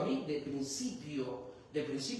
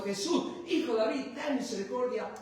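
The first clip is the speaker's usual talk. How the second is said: retold cry; 7 semitones higher than usual. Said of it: "él levantaba más la voz".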